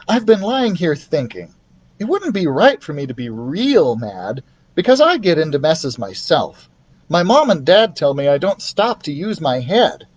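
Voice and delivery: put-on boy admitting faults; a hint of an earnest boy; boy's voice. Keith voiced.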